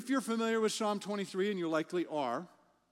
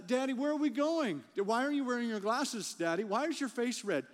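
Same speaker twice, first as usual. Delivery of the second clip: put-on curious child; 5 semitones higher than usual. Child voiced in a story.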